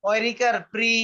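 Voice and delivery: "প্রি" blended into one syllable, pri, for repeating; syllable-blending demo. Shown as a demonstration. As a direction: spell out "পয়রিকার", then sound "প্রি" as pri. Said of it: "উচ্চারণটা হবে রি এর মতো".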